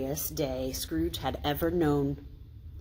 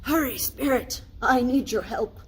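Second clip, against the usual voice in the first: higher, louder urgent call; pitched up, eager; eager hurry; 6 semitones higher, 4 dB louder than usual. A narrator's reading. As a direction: tug him along. Scrooge pulling the bear.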